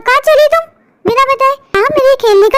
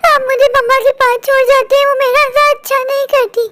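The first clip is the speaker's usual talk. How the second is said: tearful. Acted. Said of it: "आप क्यों रो रही हो?".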